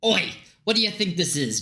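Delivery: put-on Scottish-accented indignant challenge. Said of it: "Don't know why he's Scottish".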